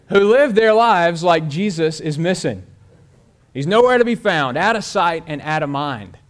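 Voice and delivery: emphatic preaching. Real, not acted. Preacher pressing his point.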